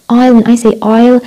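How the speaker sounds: "I'll" with a full gliding vowel; British diphthong. Shown as a demonstration. Teacher giving British example, full diphthong in "I'll". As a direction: glide through the vowel of "I'll", British style. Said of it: "بريتش".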